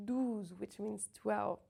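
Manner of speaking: douze with rounded oo, slow. Shown as a demonstration. Teacher contrasting douze with deux. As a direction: say douze slowly with oo. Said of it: "makes the sound oo rounded".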